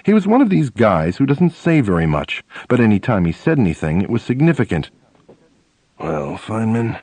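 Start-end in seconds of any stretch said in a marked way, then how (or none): 6.0-7.0 put-on slow, soft, gruff old professor. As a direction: growl it out slowly like a terse elder. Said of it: "he said in a gruff voice".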